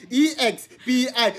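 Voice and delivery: E X P I spelled letter by letter, slowly; slow letter-by-letter spelling of E X P I. Shown as a demonstration. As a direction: spell out E X P I one letter at a time. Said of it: "I'll spell it out".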